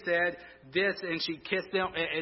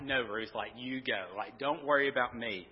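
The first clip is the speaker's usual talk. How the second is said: soft Naomi plea; 6 semitones lower, 6 dB quieter than usual. Retold or imitated. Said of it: "It's like".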